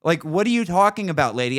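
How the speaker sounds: exasperated comeback, acted out; incredulous. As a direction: throw the question back in disbelief. Retold argument with the gatekeeper.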